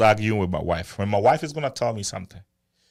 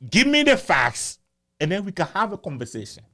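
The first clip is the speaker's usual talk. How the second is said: exasperated plea; 8 semitones higher than usual. Retold or imitated. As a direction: plead in mock exasperation with your wife. Acted plea to wife in argument.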